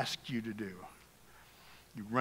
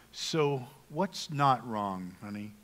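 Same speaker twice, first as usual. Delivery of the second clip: slow, softer, sweet question; asking sweetly; 4 semitones lower, 5 dB quieter, slower than usual. Shown as a demonstration. Husband sweetly asking his upset wife what's wrong, slow and soft. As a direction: coax it out of her gently and slowly. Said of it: "Now we ask sweetly".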